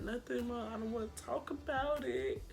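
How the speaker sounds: soft, sulky retold reply; reluctant brush-off. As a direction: shut mom down in a small voice. Retells brushing off her mother.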